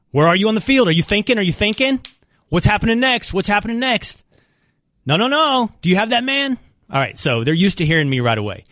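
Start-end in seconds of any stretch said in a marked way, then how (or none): 0.1-6.6 sideline dad yelling. Retold or imitated. Joystick dad yelling at his son on the field. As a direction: bark instructions at the field. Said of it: "I do entirely too much".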